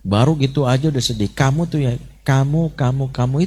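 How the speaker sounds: put-on scolding a crying child in attacking language. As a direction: nag the child, jabbing at each kamu. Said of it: "Bahasa menyerang itu bisa gini".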